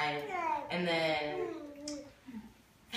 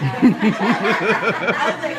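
slowed, drawn out through laughter; laughing while talking; 10 dB louder, much slower than usual. Real, not acted. Recounting her lie to the coach, laughing through it. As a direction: stretch the words while cracking up.

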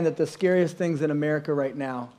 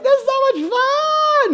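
thrilled rider; slower than usual. Retold or imitated. Riders on the coaster, hammed-up and thrilled. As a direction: gush with hammed-up excitement. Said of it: "everybody else in the roller goes like".

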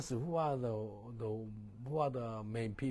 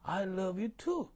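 tender reply; 6 semitones higher, 5 dB louder than usual. Retold or imitated. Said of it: "Do you know what I say".

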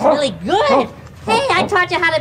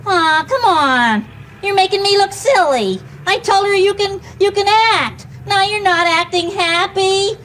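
pleading; 5 semitones higher than usual. Acted. Dog won't perform, trainer pleads.

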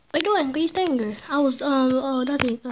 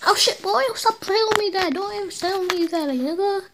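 high yell; 6 semitones higher than usual. Real, not acted. Yelling at game character.

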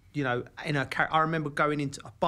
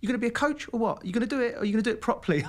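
much higher, fast, louder mock challenge; intense challenge; 9 semitones higher, 4 dB louder, much faster than usual. Emma challenging Joe to commit, higher, fast and louder. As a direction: demand a straight answer. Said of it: "but she's so intense".

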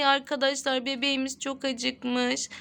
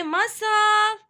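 calling out; 4 semitones higher, 4 dB louder than usual. Real, not acted. Mother calling Masal to her crying baby, calling out. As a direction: call the name across the room.

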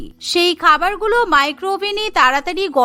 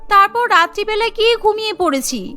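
innocent-acting bride; 2 semitones higher than usual. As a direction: play innocent, voice lifted.

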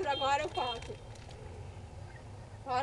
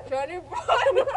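cheeks stuffed full; 5 dB louder, much slower than usual. Real, not acted. Chubby bunny, five marshmallows.

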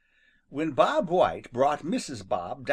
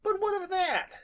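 much higher, puzzled rabbit. Acted. Rabbit asking Jimmy, high and puzzled. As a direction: ask it in a squeaky small voice.

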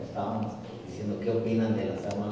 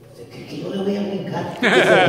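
high incredulous refusal breaking into louder laughter; amused refusal; 7 semitones higher, 8 dB louder than usual. Retold or imitated. Widow refusing her dead husband's call to jump, high amused scoff.

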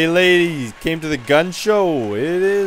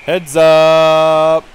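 shouted warning, louder; loud call-out; 6 dB louder than usual. Acted. Player warning opponents, loud call. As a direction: bark it down the ice. Calling out on the ice.

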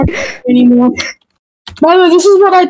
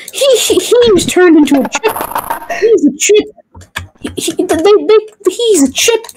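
laughing; 5 semitones higher than usual. Real, not acted. Laughing at the game.

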